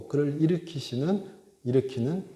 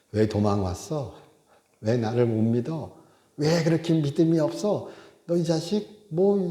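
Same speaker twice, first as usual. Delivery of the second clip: mock scolding; 2 semitones higher than usual. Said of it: "하나님도 열받으실 거 아니에요".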